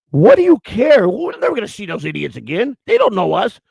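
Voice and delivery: high, loud, defiant yelling in a store; obnoxious loud outburst. Retold or imitated. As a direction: blast it out like you don't care who hears. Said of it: "I'll just get really loud and obnoxious".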